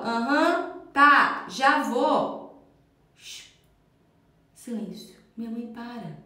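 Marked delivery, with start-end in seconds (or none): 0.0-2.6 loud, offhand "aham, tá, já vou"; dismissive kid reply. Retold or imitated. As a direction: brush the parent off without listening. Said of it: "quando eu falo". (criança respondendo no automático, distraída)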